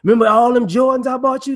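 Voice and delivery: parent voice. Acted. Parent bragging about gifts.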